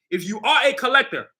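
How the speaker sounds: "are" set apart with emphasis; stress on ARE. Real, not acted. Creator pitching sneakers to collectors, stressing "are". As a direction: lean firmly on the word "are". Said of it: "I'm gonna stress that word".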